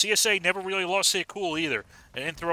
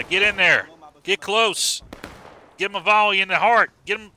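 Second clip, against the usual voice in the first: loud, higher urging them on; excited cheering; 4 semitones higher, 4 dB louder than usual. Real, not acted. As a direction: cheer the charge forward. Cheering troops into a charge.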